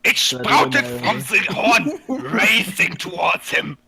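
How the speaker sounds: laughing while reading. Real, not acted. Reader laughs through the story line, slow and loud. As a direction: read on while cracking up.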